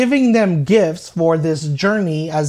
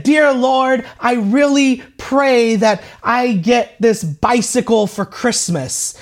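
put-on loud boyish prayer; 5 semitones higher than usual. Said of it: "he started to pray very boisterous and very loud".

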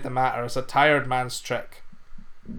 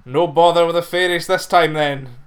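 louder, pleased teasing; delighted farmer; 2 semitones higher, 6 dB louder than usual. Acted. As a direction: cheerfully rib the lad.

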